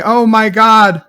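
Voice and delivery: slow, high, hammed-up revelation; Rene Picard. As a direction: blurt out a fake soap-opera bombshell, drawn out. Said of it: "Rene Picard could say".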